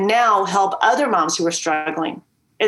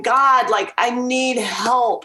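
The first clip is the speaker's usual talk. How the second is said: pleading prayer; 3 semitones higher, much slower than usual. Retold or imitated. Retold prayer at rock bottom.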